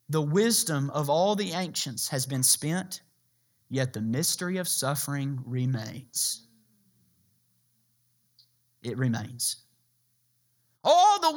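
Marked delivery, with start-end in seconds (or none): 0.1-9.6 solemn hush. Acted. Preacher hushing the congregation for the key point. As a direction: let it sink in quietly.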